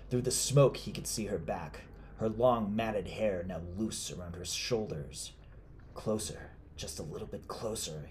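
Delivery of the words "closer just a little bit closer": soft murmur to himself; quiet self-talk. Acted. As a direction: urge yourself on under your breath. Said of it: "he told himself".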